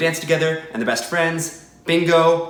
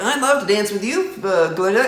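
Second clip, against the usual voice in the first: Munchkin voice; 5 semitones higher than usual. Retold or imitated. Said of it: "little Munchkin's like".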